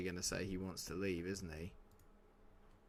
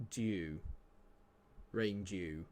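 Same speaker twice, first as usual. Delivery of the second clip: ordinary delivery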